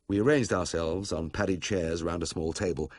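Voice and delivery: ordinary delivery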